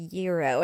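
"gyro" starting with a Y sound; GYRO as YEER-oh. Retold or imitated. Others correcting her order, "gyro" as YEER-oh. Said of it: "They're like".

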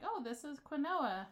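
slow "quinoa" as kwin-oh-ah, every letter; over enunciating. Retold or imitated. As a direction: draw out "quinoa" as kwin-oh-ah, slowly. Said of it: "when I was like".

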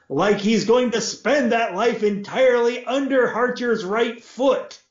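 lord's voice, pitched high, mock loud aside; loudly. A narrator's reading. Lord jabbing at his son across the room, high voice. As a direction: make sure the boy hears it. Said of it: "he added loudly".

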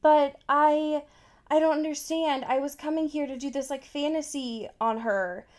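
mock whiny Joe. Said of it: "he's trying to be like".

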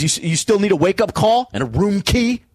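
high mock clerk asking; hotel clerk voice. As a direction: squeak it out like a startled desk clerk. Hotel guy voiced in story.

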